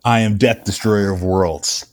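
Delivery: slow, ominous Death voice; grim reaper voice. Acted. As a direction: intone it like doom itself. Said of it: "when he says".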